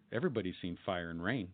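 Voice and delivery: dry deadpan put-down. Retold or imitated. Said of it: "with a deadpan voice".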